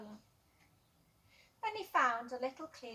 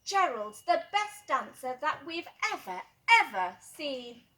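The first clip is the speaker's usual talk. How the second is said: excited crowd; 3 semitones higher, 8 dB louder than usual. A narrator's reading. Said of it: "They shouted".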